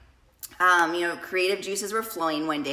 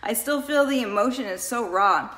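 tearful; 3 semitones higher than usual. Real, not acted. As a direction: voice lifting with raw emotion. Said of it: "still cry about it".

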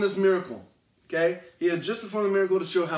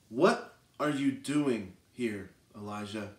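soft, slow, low whispered question; gentle whisper; 7 semitones lower, 5 dB quieter, slower than usual. Acted. God speaks softly to Elijah in the cave, slow gentle whisper. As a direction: whisper it slowly, close by. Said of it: "the sound of a gentle whisper".

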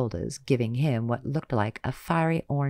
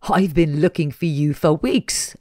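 slow, louder gravelly villain; low gravel vigilante growl; 4 semitones higher, 8 dB louder than usual. Acted. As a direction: menace dragged out slowly. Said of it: "a gravelly voice said".

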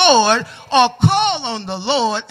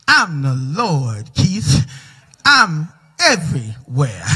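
lightly voiced God; 6 semitones lower than usual. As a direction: speak as God, calm and deep. God's voice in story.

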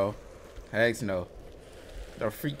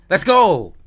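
excited cheer; 5 semitones higher, 10 dB louder than usual. Real, not acted. Solved puzzle.

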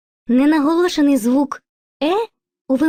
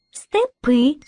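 Степи with stress on the final И; Степи, strong rising second syllable; showing the stress. Shown as a demonstration. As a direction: rise onto the last syllable of Степи. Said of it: "Визначаємо наголос".

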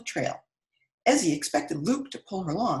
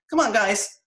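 yelling back; 3 semitones higher, 5 dB louder than usual. A narrator's reading. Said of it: "Giovanna yelled back".

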